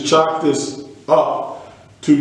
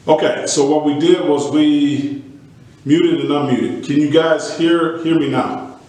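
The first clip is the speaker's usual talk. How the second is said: echoing tunnel. Real, not acted. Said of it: "You sound like you're in a tunnel".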